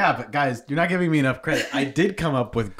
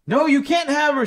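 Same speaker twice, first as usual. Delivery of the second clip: higher, lightly raised defiance; shouted; 10 semitones higher, 3 dB louder than usual. Acted. Roan protecting her daughter from the witch, defiant shout. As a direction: refuse to give up the child. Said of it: "she shouted".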